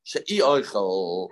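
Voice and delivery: "She'i oichel" drawn out slowly, with a separate ee; demonstrated pronunciation. Shown as a demonstration. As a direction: slowly spell out "She'i" as "sheh-EE". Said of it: "has to be pronounced she'i oichel".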